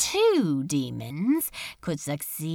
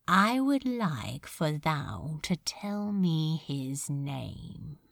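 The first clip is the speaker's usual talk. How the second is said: curt, softer demand; said shortly; 4 semitones lower, 6 dB quieter than usual. A narrator's reading. Demon lord coldly demanding a name, curt. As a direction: clip the request short and cold. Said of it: "he said shortly".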